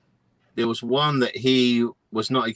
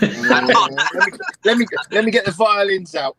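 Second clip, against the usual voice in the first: sarcastic sympathy; 8 semitones higher, 6 dB louder than usual. Pretend. Mock sympathy teasing.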